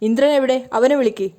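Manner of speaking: mildly annoyed, asking where Indran is; angry demand. Acted. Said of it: "Ajaz ദേഷ്യത്തോടെ അവരോട് പറയുന്നുണ്ട്". (ദേഷ്യത്തോടെ, അൽപ്പം ഉയർന്ന ശബ്ദത്തിൽ)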